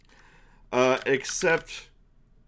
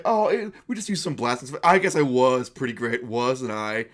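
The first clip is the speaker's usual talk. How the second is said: cheesy boasting. Acted. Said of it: "boasting, say".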